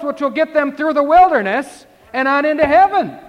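rising preacher's cadence, driving each clause home; preaching at full force. Acted. Preacher urging the congregation to repent, fiery and loud.

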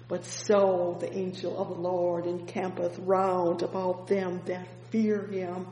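normal talking voice

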